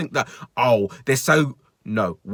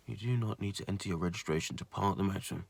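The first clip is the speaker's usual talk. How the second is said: mock robotic reading; 8 semitones lower, 16 dB quieter than usual.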